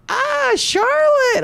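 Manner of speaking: high, slow, drawn-out gush; mock excited gush. Surya flirting with the woman, over-the-top gush. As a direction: gush over the city like a fanboy. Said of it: "And then Surya's like".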